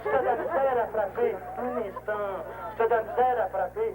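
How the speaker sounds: hammed-up churchy coaxing; mock priest. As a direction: bless the batter like a parish priest, playfully. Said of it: "ici le révérend père des Marais".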